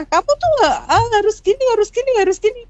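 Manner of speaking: high, nagging mock scold from an older relative; scolding grandma. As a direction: imitate a grandma telling the child off, pitched well up. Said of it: "Kalau mbahnya suka marah-marah". (nenek memarahi cucunya dengan nada tinggi)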